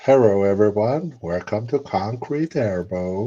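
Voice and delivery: slow mock-Asian accent greeting. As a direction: do a caricatured Asian-accented channel intro. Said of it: "like, an Asian accent".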